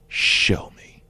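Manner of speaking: underplay it, cool as ice; cool, low reply. Retold or imitated. A singer's curt answer.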